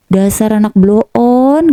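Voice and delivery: slow, drawn-out retold scolding; mock scolding. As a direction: drag out the insult as the friend. Friend scolds her for overpaying.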